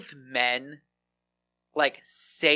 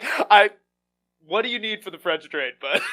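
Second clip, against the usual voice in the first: laughing; 4 semitones higher, 6 dB louder than usual. Retold or imitated. Giving up, laughing.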